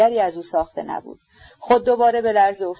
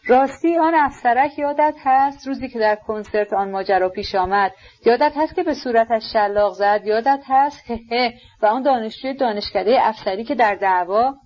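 mild raving shout; 4 semitones higher than usual. Acted. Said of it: "به صدای بلند فریاد زدن ... قاه قاه خنده".

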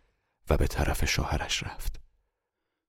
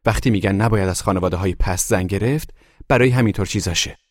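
loud, higher indignant remark; arguing onlooker; 3 semitones higher, 6 dB louder than usual. A narrator's reading. Guest condemning the wife's family, loud and indignant. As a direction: argue it hotly with the others.

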